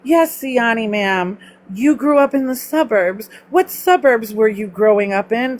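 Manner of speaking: lightly put-on proper speaking voice; mock a careful, proper English register; slightly affected formal ma'am voice. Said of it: "turn on my proper English speaking".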